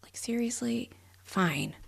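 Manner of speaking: pouting. Retold or imitated. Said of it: "like, pouting".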